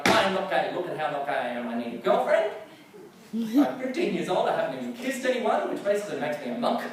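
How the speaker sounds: high, loud, panicky self-talk; frantic teen panic. Retold or imitated. A fifteen-year-old panicking about needing a girlfriend, high frantic. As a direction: rant at yourself, desperate and rising.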